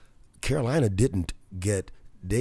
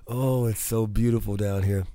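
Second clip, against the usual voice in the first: normal talking voice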